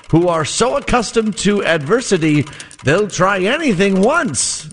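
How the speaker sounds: vintage radio announcer read; old-timey radio voice. Acted. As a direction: read it like a 1920s sportscaster. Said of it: "I'm gonna put in my old-timey radio voice".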